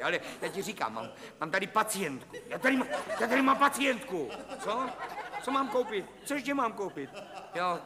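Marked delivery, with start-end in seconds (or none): 2.5-7.8 high, cracking, near-hysterical laugh through the words. Acted. Psychiatrist losing it with his wife on the phone, manic laughter. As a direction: voice breaking into manic giggles. Doctor's patience snapping on phone.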